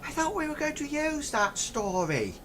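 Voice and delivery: high, soft confused aside; goblin aside. Acted. Goblin muttering to his partner in a confused aside. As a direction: mutter it to a mate. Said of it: "turns around to the other one and says".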